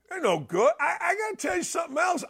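ordinary talk, nothing marked

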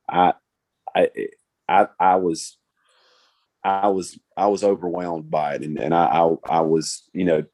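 stammering, restarting each phrase; overwhelmed, stumbling over words; fumbling for words. Real, not acted. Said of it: "I sound like I'm stumbling all over myself".

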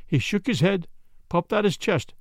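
usual speaking voice

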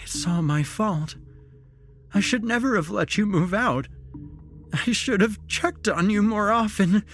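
high, tearful self-blame; blubbering. A narrator's reading. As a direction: blubber it out as a guilty mother. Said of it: "she blubbered".

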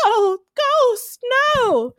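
high, alarmed crowd cry; mock cry of alarm. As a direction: shout in panic as he gets beaten. Everyone cries out in scene.

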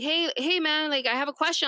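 lightly voiced friendly stranger asking; a hint of a guy stopping a deputy with a question; mimicking a passerby. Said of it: "he's like".

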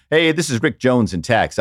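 the real Rick's voicemail hello; a casual outgoing-message hello; voicemail greeting. Retold or imitated. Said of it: "it would be like".

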